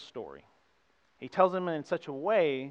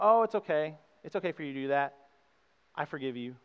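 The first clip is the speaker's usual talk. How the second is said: mock lenient forgiveness; 4 dB louder than usual. Preacher mocking a lax Jesus, airy and careless. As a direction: brush the sin aside lightly. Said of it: "But he didn't go".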